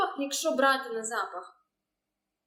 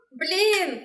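surprised gasp; 5 semitones higher than usual. Real, not acted. Hearing a tasty recipe.

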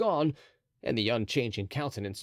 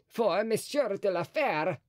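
cardinal voice; 8 semitones higher than usual. A narrator's reading. Mazarin speaks.

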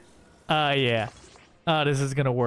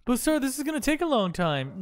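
mock underling voice; 6 semitones higher, faster than usual. Voicing a game underling.

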